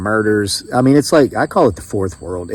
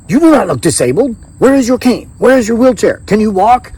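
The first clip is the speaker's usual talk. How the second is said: put-on high, loud Filipino-accented challenge; mimicked Filipino accent; 10 semitones higher, 4 dB louder than usual. Doctor doubting a disabled veteran, mimicked Filipino accent. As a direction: imitate a Filipina doctor grilling a patient. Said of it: "I'm doing my best to mimic it".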